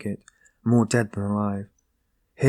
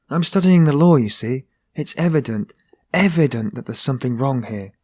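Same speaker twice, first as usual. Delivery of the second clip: a touch of heated protest, pitched up at the start; hotly insisting, mildly raised; cried hotly; 3 semitones higher, 4 dB louder than usual. Acted. Young man hotly insists to the porter-seeker, mildly heated. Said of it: "the young man cried hotly".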